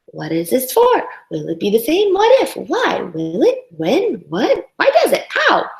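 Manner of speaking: put-on curious child. Voicing child's flurry of questions.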